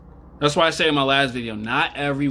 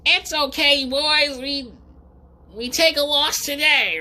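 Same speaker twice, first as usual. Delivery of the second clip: mock consoling bro; 14 semitones higher than usual. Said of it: "his beta male friends go".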